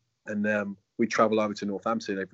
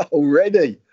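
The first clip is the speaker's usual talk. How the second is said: laughing; 4 semitones higher, 12 dB louder, slower than usual. Real, not acted. Laughing at surprising mention.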